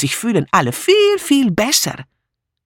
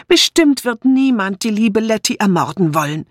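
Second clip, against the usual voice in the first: high, whining, distressed voice; tearful protest; 9 semitones higher than usual. A narrator's reading. Dora defending her dear Letty, tearful. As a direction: insist on it plaintively, pitched high. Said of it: "rief Dora Banner weinerlich".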